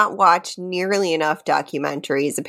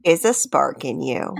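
dramatic reading. Pretend. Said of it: "That sounded like a Doctor Seuss book".

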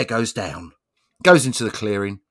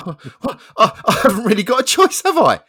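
higher, louder whiny resignation; resigned bloke; 10 semitones higher, 10 dB louder than usual. Acted. Bloke gives in to the bear, a high whiny voice. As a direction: whine that there's no way out.

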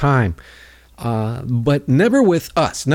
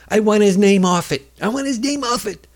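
higher, whiny mock Trump; Trump impression; 9 semitones higher than usual. Trump demanding Obama's name off the deal, whiny mockery. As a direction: sneer it like a petty Trump. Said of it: "Trump's like".

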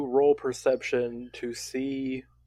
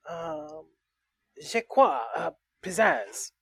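put-on French accent; 4 semitones higher than usual. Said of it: "He is very French".

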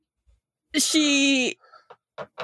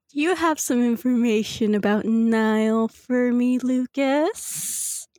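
commanding voice. Acted. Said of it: "no one's ever heard that voice".

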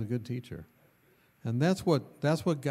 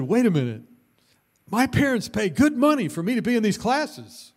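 louder, higher mock outrage; hammed-up indignant protest, louder and higher; mock indignation; 9 semitones higher, 7 dB louder than usual. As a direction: play the offended student.

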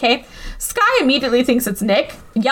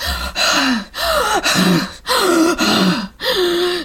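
breathless gasp; 5 semitones higher than usual. Retold or imitated. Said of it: "answers the phone breathlessly".

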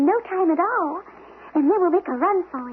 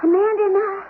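high, tearful reassurance; tearful promise; 6 semitones higher than usual. Acted. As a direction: promise through tears. Leaving wounded brother.

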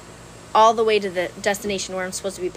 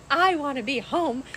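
laughing whine; 7 semitones higher than usual. Retold or imitated. Pleading to officer, laughing.

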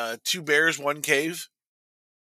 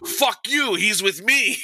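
higher-pitched, lightly hammed-up defiance; mock defiant retort; 5 semitones higher, slower than usual. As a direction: imitate a gangster sticking up for his buddy. Igor retorts to yelling teacher.

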